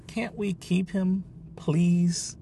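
put-on high pleading child's voice; girl begging dad for the rabbit. A narrator's reading. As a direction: beg your dad to keep him. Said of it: "I was begging".

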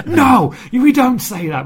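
loud, high, drawn-out indignant shout. Retold or imitated. British viewer yelling at the TV over bad slang, indignant shout. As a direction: re-enact an outraged yell at the screen, slowly stretched. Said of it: "just shouting at the T V".

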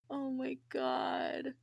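high, soft, slow, overcome; real choked-up dismay. Real, not acted. Host overcome after retelling Mac's words about Hope, tearful. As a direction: squeeze it out slowly, close to tears.

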